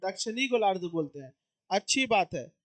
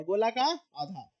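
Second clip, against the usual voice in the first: slow explaining; 3 semitones lower, 3 dB quieter, slower than usual. Shown as a demonstration. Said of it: "गोला का आधा हो गया".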